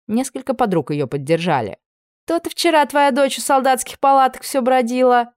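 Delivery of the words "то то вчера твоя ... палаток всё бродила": higher, louder sneering taunt; mocking jab. Dark-haired woman taunting the old servant, mocking. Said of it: "расхохоталась темноволосая женщина".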